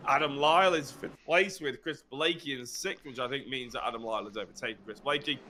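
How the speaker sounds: breathless, gasping between phrases; talking while winded and panting; out of breath. Real, not acted. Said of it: "if I sound like I'm out of breath".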